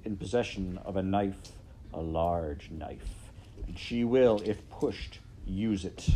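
measured, politely menacing villain; a hint of a smooth threatening rat; lightly voiced scheming rat. Roscuro threatening the princess with Midge's knife, lightly menacing.

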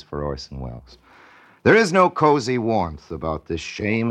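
solemn poem recitation; poem reading. Acted. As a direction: read the verse with gravity. Reads a listener's poem.

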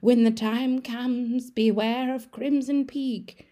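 mild mock ghost warning; weird ghost voice. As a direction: draw it out like a ghostly mother. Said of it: "mom says in a weird voice".

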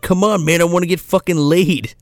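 lightly voiced frustrated teen boy; mock horny teen. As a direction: beg your buddy to let you score. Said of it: "Foggy Nelson's just like".

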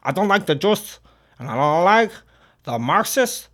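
put-on a light Scarface-style Cuban gangster accent. Streamer voicing Hitler, a light Scarface accent. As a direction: slip into a hint of a Scarface accent. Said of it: "a little bit of a Scarface".

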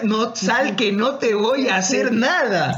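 slow, lightly voiced coaxing mother. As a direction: sweet-talk the kid out slowly. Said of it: "una de las mentiras".

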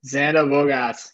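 slow Boston accent on the name. Real, not acted. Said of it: "you have a Boston accent when you talk like that".

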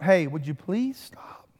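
slow, meek, polite asking; timid request. Shown as a demonstration. A weak plea to the storm, meek and slow.

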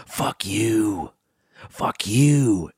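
drawn-out mock cursing, lightly put on; retold curt cursing. Imitating a crashed bike messenger cursing the passenger, mildly put-on anger. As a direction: toss out a curse in an imitated voice. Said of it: "and he just goes".

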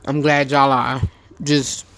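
talking while chewing; words round a bite of grits; mouth full. Real, not acted. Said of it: "What are you eating, Red?".

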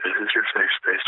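soft soothing hypnotist voice; calming voice. Pretend. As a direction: lull them like a hypnotist. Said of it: "Is that voice calming?".

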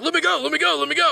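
high-pitched imitation of a struggling kid; mock pleading. Student held under the tap begs release, mock panic. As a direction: repeat it high and urgent, lightly panicked.

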